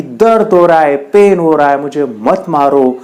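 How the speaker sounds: mildly acted cry of pain; a touch of urgent begging; pleading stone. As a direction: plead lightly as the hurting stone. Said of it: "वो पत्थर कहता है कि".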